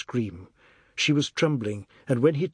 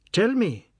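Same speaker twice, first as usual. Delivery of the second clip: higher, louder angry demand; enraged demand; 9 semitones higher, 4 dB louder than usual. Acted. Father demanding answers from crying daughter, angry. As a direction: demand it in rising fury. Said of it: "His rage shocked her".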